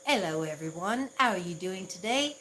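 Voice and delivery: self-conscious try at a British accent; attempted British accent. Shown as a demonstration. Streamer trying British for a British viewer, tentative British accent. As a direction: put on an amateur British accent, lifting each phrase end. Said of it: "you're British".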